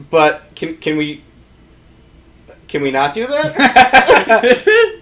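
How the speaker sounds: whiny pleading. Retold or imitated. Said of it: "Matt Damon's like".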